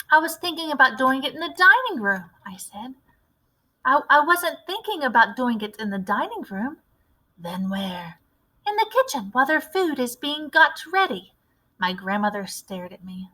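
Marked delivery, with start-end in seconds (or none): 0.1-11.3 put-on higher, bright boy's voice explaining his idea; a keen little boy with a clever plan; eager mouse boy.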